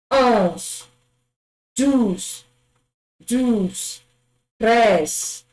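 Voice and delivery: each number said twice, slow and carefully; French number drill. Shown as a demonstration. Teacher modelling French numbers for a class to copy. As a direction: model every French number clearly for students. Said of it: "follow these sounds I've written".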